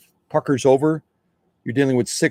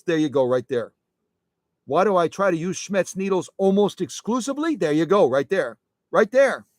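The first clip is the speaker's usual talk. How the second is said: lightly put-on Brooklyn accent, higher pitch; bad Brooklyn accent; 4 semitones higher than usual. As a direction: have a rough go at Brooklyn. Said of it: "I don't do a good Brooklyn accent".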